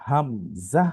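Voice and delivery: হামজা said short, no lengthening; letter name without elongation; unstretched Hamza. Shown as a demonstration. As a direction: keep হামজা clipped with no drawl. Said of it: "এই হরফের কোনো টান হয় না".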